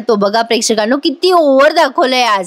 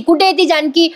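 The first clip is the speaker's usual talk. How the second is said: calling out; 5 semitones higher than usual. Retold or imitated. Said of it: "आवाज द्यायला लागतो मोठ्या मोठ्याने".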